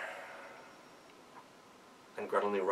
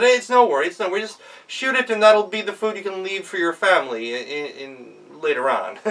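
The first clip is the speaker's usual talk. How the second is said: dismissive reassurance; 6 semitones higher, 6 dB louder than usual. Acted. Devil brushing off question.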